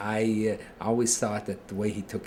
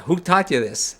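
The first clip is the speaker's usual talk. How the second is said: retold furious shout at the son, pitched up and loud; livid father; 8 semitones higher, 9 dB louder than usual. Father shouting at his son over the four questions, mock furious. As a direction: bark it like a father who has just found out. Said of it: "turns livid".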